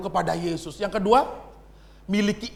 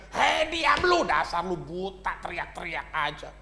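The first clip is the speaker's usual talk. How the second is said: annoyed crowd; 2 semitones lower than usual. Acted. Bystanders telling the blind man to shut up, scornful and dismissive. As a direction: shush him with contempt. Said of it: "orang-orang di sekitarnya keberisikan".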